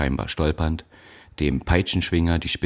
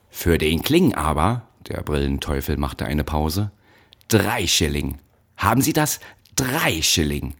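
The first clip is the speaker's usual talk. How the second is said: stern overseer. Acted. Aufseher verhängt Strafe.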